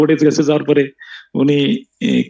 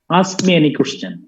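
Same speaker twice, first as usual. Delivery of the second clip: slowly, word by word; slow dictation; much slower than usual. Shown as a demonstration. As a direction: dictate it for students to write down. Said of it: "লেখো খাতার উপরে".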